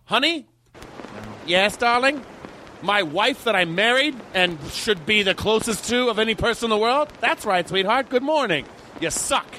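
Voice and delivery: sixties ad couple. Retold or imitated. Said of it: "all of the ads in the sixties were like".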